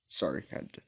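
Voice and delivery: soft aside whisper. Real, not acted. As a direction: whisper an apology. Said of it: "I just don't wanna wake up my parents".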